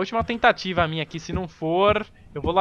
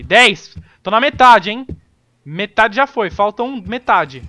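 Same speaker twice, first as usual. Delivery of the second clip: excited; 3 semitones higher, 10 dB louder, slower than usual. Real, not acted. Excited counting progress.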